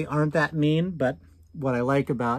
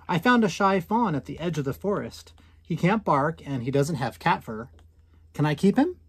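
a hint of an eager boy, rising on the question; lightly voiced child pleading; hopeful little boy; 2 semitones higher than usual. Boy asks mom to keep the shy fawn, gently pleading.

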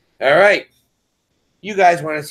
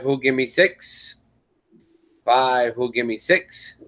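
auctioneer. Real, not acted. Runs the live auction bidding.

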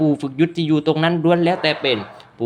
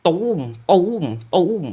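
imitated explosions. A narrator's reading. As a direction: voice each blast as a swooping boom. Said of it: "เสียงระเบิดนะครับ ดังขึ้นอย่างสนั่นหวั่นไหว".

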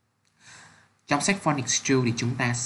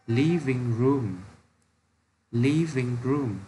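slow model reading; slower than usual. Shown as a demonstration. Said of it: "Nào các em cùng đọc nhé".

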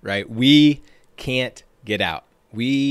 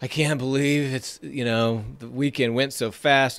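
lightly voiced receptionist, mopey and put-upon; a hint of a grumbling coworker dreading Monday; gloomy complaining. Imitating the receptionist grumbling about Monday, mildly mopey. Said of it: "like, just negative attitude".

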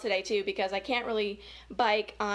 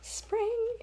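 puzzled question; 11 semitones higher than usual. Real, not acted. Reader muses aloud.

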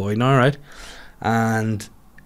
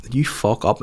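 a mother hissing a quiet threat; hushed parental warning; 7 dB quieter than usual. Retold or imitated. Kate leaning over to scold her son, hushed warning. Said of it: "she just bent over and went".

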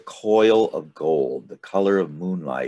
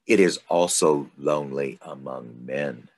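mysterious snake. Acted. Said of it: "the snake starts getting very mysterious".

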